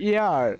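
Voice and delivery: "ইয়ার" with no H at the start; silent H. Shown as a demonstration. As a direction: begin "ইয়ার" directly on the vowel sound. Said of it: "উচ্চারণ কি হবে আমাদের". ("ইয়ার" এইচ উচ্চারণ না করে)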